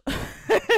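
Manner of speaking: amused laugh; laughing at herself. Real, not acted. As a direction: burst of high laughter. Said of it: "Ça me fait rire".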